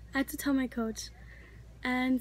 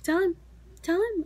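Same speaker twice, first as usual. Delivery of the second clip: urgent mom prodding; 5 semitones higher than usual. Retold or imitated. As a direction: mimic a mom nudging hard, tell him. Mom urging her to tell dad.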